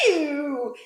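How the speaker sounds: loud, drawn-out ew; mock scream. A narrator's reading. Hog sprayed by the sneeze, mock disgusted scream. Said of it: "who screamed".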